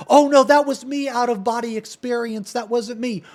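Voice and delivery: high-pitched mock excuse; sarcastic imitation. Streamer voices the rival's imagined excuse, sarcastic mimicry.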